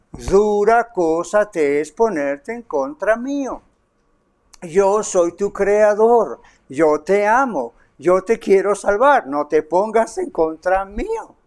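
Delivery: slow, tender pleading; loving plea. Retold or imitated. God speaking in love to the listener who resists Him, slow and tender. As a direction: plead with them gently and slowly. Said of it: "Dios le dice hoy en amor".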